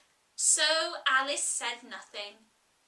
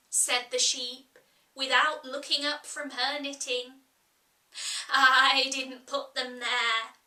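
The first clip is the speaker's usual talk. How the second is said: Sheep, curt; 3 dB louder than usual. Acted. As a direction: answer without looking up, gruff. Sheep answers curtly.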